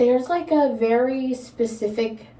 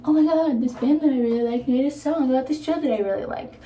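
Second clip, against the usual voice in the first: mock fan excitement; 4 semitones higher, faster than usual. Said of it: "you listen to that and you're like".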